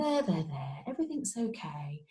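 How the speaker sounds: put-on soft, soothing coo to a crying baby; gentle sing-song. Shown as a demonstration. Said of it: "use a bit of a sing-songy voice, a gentle voice to try and coax them".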